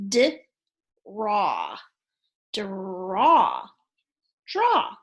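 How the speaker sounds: D, raw, then draw said whole; blending sounds. Shown as a demonstration. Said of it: "add d in front of it".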